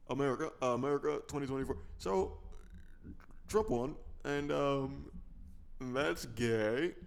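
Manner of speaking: halting mock presidential address; lightly imitated statesman, stretching words between pauses; Barack Obama. Obama addressing America after the election, halting impression. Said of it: "Imagine that's what Obama said".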